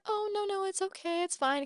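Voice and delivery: high, soft, reassuring demurral; polite refusal. Retold or imitated. Retold polite refusal of an offer.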